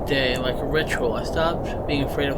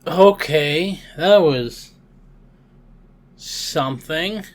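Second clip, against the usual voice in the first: stunned; 2 semitones higher, 7 dB louder, slower than usual. Real, not acted. Streamer reacting to the ending, loudly stunned. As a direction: blurt it out, caught off guard.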